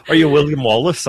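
laughing bad Scottish brogue; half-laughing Scottish accent attempt. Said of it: "I won't try a Scottish accent anymore".

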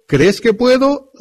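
a lifted, gentle ask to the mother; Jesus asking. Acted. Jesús pregunta a la mamá. (Jesús pregunta a la mamá, voz alta)

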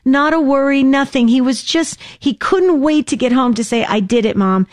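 excited. Retold or imitated. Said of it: "phone call from Sandy".

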